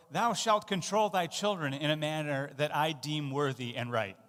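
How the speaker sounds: a hint of a lawgiver; lightly hammed-up decree; mock commandment. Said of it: "we might say it like this".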